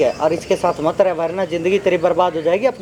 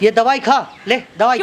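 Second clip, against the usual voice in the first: raised, insistent command; forceful order; 4 semitones higher, 3 dB louder than usual. Acted. Man pushing medicine on an unwilling woman, forceful order. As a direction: press the demand over objections. Repeats order over her refusals.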